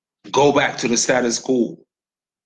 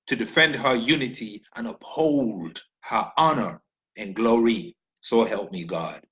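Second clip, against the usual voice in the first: measured recitation of the national pledge; reciting the pledge. Shown as a demonstration. To the listeners, reciting Nigeria's pledge as a measured oath. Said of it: "Let me, okay".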